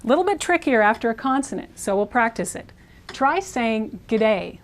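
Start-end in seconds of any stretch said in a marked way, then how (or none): 4.1-4.6 Australian accent. Shown as a demonstration. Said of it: "like an Australian a couple times fast".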